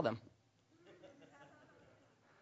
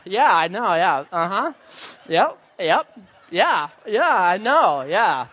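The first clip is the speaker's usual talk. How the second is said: mock eager agreeing; 6 dB louder, slower than usual. Acting out nodding along in code.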